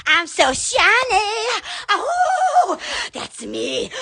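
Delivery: crab from Moana. Retold or imitated. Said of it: "where the crab goes".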